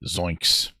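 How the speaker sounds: Shaggy-style zoinks; lightly voiced cartoon yelp. Streamer tossing out a cartoon zoinks, lightly voiced. Scooby-Doo catchphrase gag.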